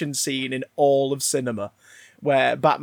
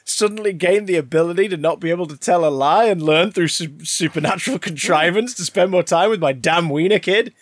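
exasperated retort; 3 dB louder than usual. Retold or imitated. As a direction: throw it back like a fed-up husband. Exasperated husband's retort, acted.

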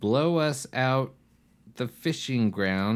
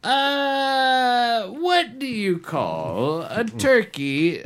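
laughing; 14 semitones higher, 6 dB louder, slower than usual. Real, not acted. Laughing through question.

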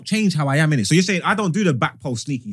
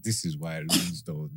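slow, high, drawn-out shout; slow drawn-out exasperated shout; 5 semitones higher, much slower than usual. Retold or imitated. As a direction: stretch every word into an exasperated yell. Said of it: "I was like".

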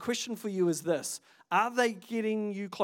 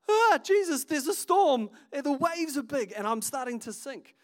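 high, loud mock panic easing off; panicking Peter; 6 semitones higher, 3 dB louder than usual. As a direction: cry out to Jesus in hammed-up alarm. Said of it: "Peter, right?".

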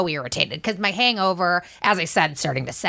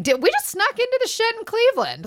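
giddy disbelief; 10 semitones higher, faster than usual. Retold or imitated. Retold thoughts after sneaking in.

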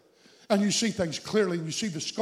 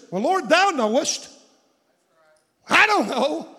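Ezekiel unsure; 7 semitones higher, 7 dB louder, slower than usual. Retold or imitated. Ezekiel's unsure reply retold.

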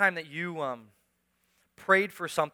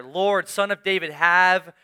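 retold scream; 6 dB louder than usual. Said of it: "they start screaming even louder".

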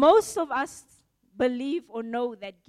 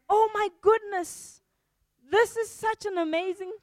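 higher gushing delight; a delighted gift opener; excited; 6 semitones higher than usual. Pretend. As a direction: gush over the present. Gift receiver overjoyed again.

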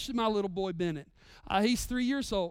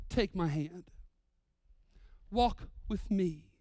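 tender invitation; 3 semitones lower, 3 dB quieter, slower than usual. Retold or imitated. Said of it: "He says".

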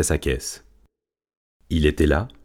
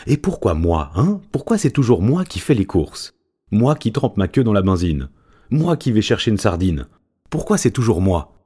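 protesting; 4 semitones higher than usual. Acted. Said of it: "protesta Secretario".

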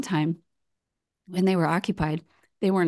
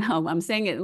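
usual speaking voice

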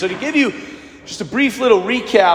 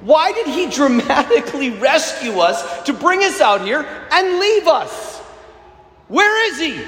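higher, imitated bewildered plea; doubting questions; 4 semitones higher than usual. Rescued Israelites wondering where God is, voiced doubting. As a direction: question it like someone left stranded. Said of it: "They begin to wonder".

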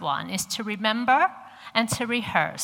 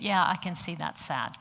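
understated imitation of unmoved husband; detached observing; 2 semitones lower, 4 dB quieter than usual. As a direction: state it as a mere observation. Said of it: "He's just observing it".

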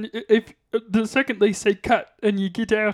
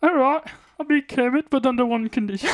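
plummy upper-class frog puppet voice; a frog puppet speaking like English gentry; posh Kermit voice; 2 semitones higher than usual. Pretend. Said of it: "are you doing a Kermit voice".

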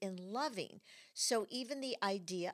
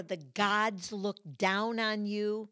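mock ominous judgment; 6 dB louder, slower than usual. Quoting religious judgment, slow.

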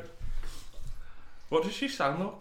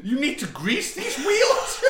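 talking wheelchair; 12 semitones higher, 5 dB louder than usual. Acted. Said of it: "I am Stephen Hawking's wheelchair speaking".

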